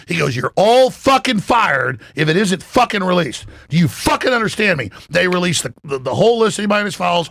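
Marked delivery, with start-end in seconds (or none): 0.3-4.9 higher, emphatic imitation of an angry boss; retold yell. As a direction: act out the boss's cussing tirade. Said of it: "he yelled some".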